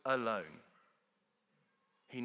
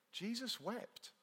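"Jesus wept" much higher, soft and slow, mock-exasperated; swearing exclamation; 10 semitones higher, 6 dB quieter, slower than usual. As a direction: squeal out "Jesus wept" like a despairing Brit. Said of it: "it's a term of swearing".

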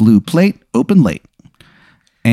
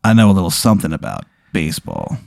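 put-on gruff old man; 4 semitones lower, 4 dB quieter than usual. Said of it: "this gruff voice".

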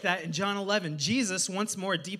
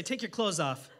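mock instruction. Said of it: "Look at someone and say".

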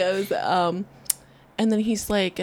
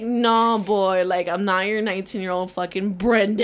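sassy clapback; 5 dB louder than usual. Retold or imitated. Retelling telling off the ex about Brenda, loud and sassy. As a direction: put him in his place with attitude. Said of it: "I was just like".

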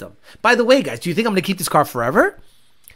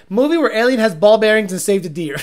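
laughing quote. Retold or imitated. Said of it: "So I literally said".

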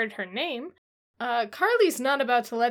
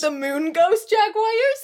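mock-dramatic, higher, louder, slow; spooky announcer; 10 semitones higher, 9 dB louder, slower than usual. Co-host hamming up the book title, spooky and slow. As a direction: ham up the title like a creepy trailer.

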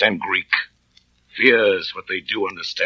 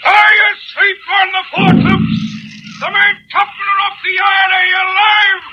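furious high bellow; shouting; 7 dB louder than usual. Acted. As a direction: yell up at the men aloft. Orders shouted across the deck.

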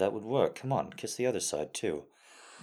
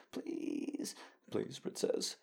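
whispering; 7 dB quieter, much slower than usual. Acted. Sudden whispered plea.

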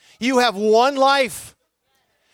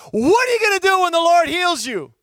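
voicing the preacher dad; 7 semitones higher, 4 dB louder than usual. Dad voiced with microphone.

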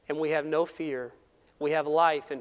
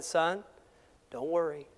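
calm father. Retold or imitated. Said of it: "very calmly".

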